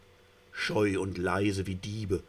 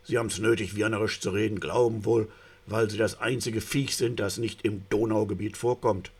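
louder haughty rebuke; indignant retort; 2 semitones higher, 5 dB louder than usual. Acted. The silver salmon scolding the eel for talking Viennese. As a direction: snap back with wounded pride. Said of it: "Der Silberne fährt auf".

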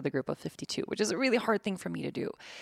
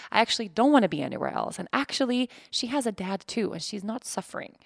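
defensive inner voice; 3 semitones higher than usual. Retold or imitated. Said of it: "another voice that sort of comes in".

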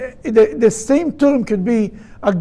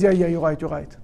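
grudging admission; 6 semitones lower, 7 dB quieter than usual. Acted. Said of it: "And eventually he says".

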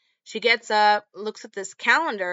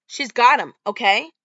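retold yell; 3 semitones higher, 9 dB louder than usual. Boyfriend yelling at mother.

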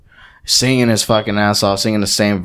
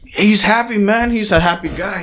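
imitated dad; 9 semitones higher than usual. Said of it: "He's like".

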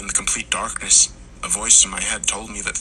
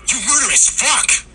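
high, loud furious yell; enraged scream; 5 dB louder than usual. A narrator's reading. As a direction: spit the words out in rage. Henry attacks Tommy.

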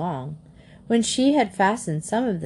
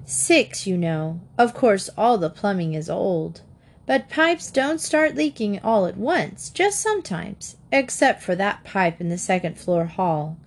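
sweet chatter. Acted. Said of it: "she chattered on".

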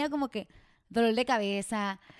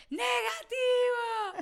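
stretched-out joyful shout; 11 semitones higher, much slower than usual. Retold or imitated. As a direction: call out "Negativo" long and high in disbelief. Second result, drawn-out cry.

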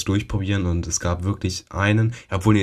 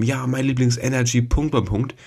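retold kid's shout; 6 semitones higher than usual. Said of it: "dann schreit einer darum".

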